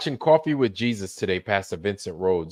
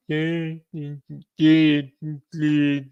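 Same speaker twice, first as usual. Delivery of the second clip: high, put-on dismissive yeahs; mocking staff; 5 semitones higher, much slower than usual. Mocking the library staff who brushed him off, high dismissive voice.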